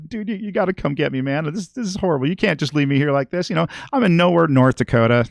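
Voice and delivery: imitating a sobbing friend on voicemail; mock crying plea. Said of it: "He was crying his fucking eyes out".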